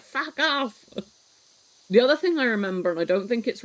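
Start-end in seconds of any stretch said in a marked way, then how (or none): 0.0-0.8 playful brush-off. Retold or imitated. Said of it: "you're like".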